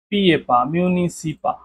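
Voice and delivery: very slow, adding পা to মিউনিসিপা; slow syllable drill. Shown as a demonstration. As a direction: build মিউনিসিপা piece by piece, slowly. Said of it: "খেয়াল করছেন?".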